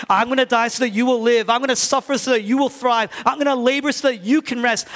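preaching full force, vows escalating; building vow. Real, not acted. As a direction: climb with each promise.

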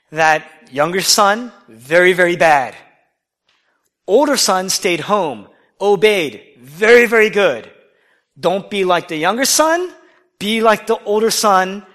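loud, slow preachy moralizing; mock Sunday school. Preacher mimics childhood Sunday school teaching, loud and mocking. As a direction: parody a simplistic Sunday school lesson. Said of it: "I used to be taught".

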